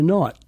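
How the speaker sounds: "not" with a lengthened Boston vowel; elongated vowel. Shown as a demonstration. Coach shows the Boston sound, elongated vowel in "not". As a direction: stretch the rounded vowel in "not". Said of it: "And it's almost elongated".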